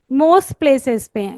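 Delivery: most drawn out slowly; deliberate teacher emphasis; slow emphatic teaching. Shown as a demonstration. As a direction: say Most places पे slowly, leaning on Most. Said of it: "I am repeating it many times".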